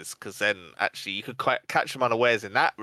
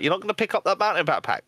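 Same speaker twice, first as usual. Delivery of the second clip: mocking Andy; 8 semitones higher, faster than usual. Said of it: "and you were like".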